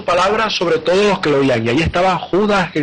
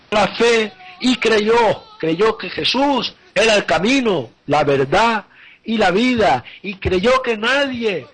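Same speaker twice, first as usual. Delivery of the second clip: predicación fervorosa; 5 semitones higher than usual. Real, not acted. Predicador se enciende.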